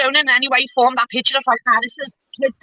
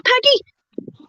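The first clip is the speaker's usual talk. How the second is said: Peggy jabbed up high at the end; pointed challenge; 8 semitones higher than usual. Real, not acted. Challenging Peggy by name during a heated online row. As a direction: call her out by name, sharply.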